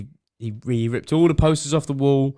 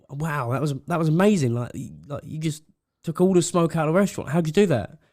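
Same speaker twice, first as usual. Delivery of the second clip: amazed woman; 5 semitones higher than usual. Retold or imitated. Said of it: "the woman goes".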